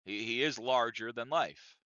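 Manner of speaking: slow, leaning on "is"; stress on is. Shown as a demonstration. Comic punning about a large man, stressing "is". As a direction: slowly lean on "is". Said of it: "larger than li- quite literally".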